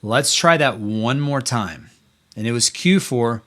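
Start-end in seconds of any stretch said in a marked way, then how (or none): 0.0-1.9 serious warning. Retold or imitated. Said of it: "with a serious tone".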